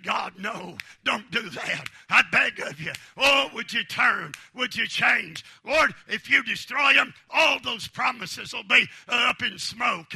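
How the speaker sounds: a hint of Moses begging God; lightly voiced desperate plea; Moses pleading. Moses begging God to spare Israel, mild pleading. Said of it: "And oh, Moses, he said".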